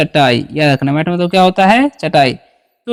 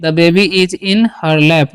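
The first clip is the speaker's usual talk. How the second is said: slow dictation; much slower than usual. Shown as a demonstration. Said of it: "जैसे में".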